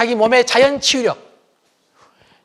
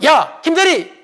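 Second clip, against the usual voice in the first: higher bossy call to staff; boss calling; 8 semitones higher, 3 dB louder, slower than usual. Retold or imitated. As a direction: summon an employee like a boss. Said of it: "사장님이". (부하를 부르는 사장님 말투)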